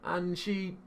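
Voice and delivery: high-pitched Australian impression drifting into Scouse; botched Australian accent. Caller pushes his made-up sister on a student, botched Australian accent. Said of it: "sound like you're doing a Liverpool accent".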